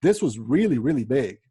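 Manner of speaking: loud, emphatic enthusiasm with ups and downs; injected emotion. Shown as a demonstration. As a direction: punch each really and swell on big. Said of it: "inject some emotion into what you're saying".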